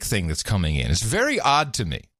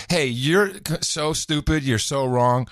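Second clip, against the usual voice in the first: mock rude jab; 4 semitones higher, slower than usual. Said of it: "you don't wanna say it like".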